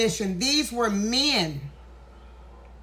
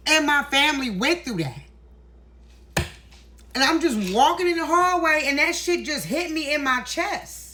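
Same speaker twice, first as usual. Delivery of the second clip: emotional; 5 semitones higher than usual. Real, not acted. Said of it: "I get emotional because".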